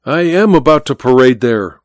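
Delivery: mock copy of the friend's accent; imitating Godal's accent. Malvino mockingly echoing Godal's accent back at him, lightly done. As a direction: echo his friend's way of speaking, mildly. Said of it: "imitating the accent of the other".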